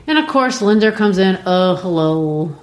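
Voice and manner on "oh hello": buffoon. Retold or imitated. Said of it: "he just comes like a complete buffoon".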